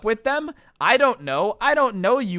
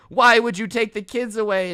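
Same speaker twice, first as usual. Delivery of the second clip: mock yell; 3 semitones higher, 5 dB louder than usual. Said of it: "he's yelling at her".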